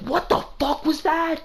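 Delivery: retold outrage at the screen; exasperated disbelief. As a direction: replay the moment you couldn't believe what you saw. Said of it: "where I was just like".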